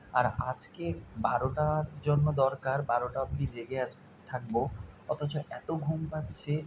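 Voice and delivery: slow, drowsy and tired; fighting off sleep; sleepy. Real, not acted.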